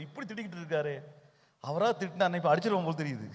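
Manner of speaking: low, soft grumble under the breath; imitated private grumbling. Preacher mimics listeners' thoughts about his scolding, hushed grumbling. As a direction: grumble to yourself so the preacher won't hear.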